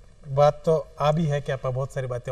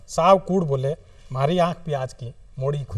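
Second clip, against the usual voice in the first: poetry recitation; 3 dB louder than usual. Acted. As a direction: recite it line by line, unhurried. Recites own short poem. (कविता पाठ, ठहर-ठहर र)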